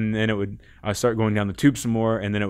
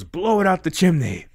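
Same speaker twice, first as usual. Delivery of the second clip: mystical voice answering; 8 semitones higher, 3 dB louder than usual. Retold or imitated. Ayahuasca answers his question.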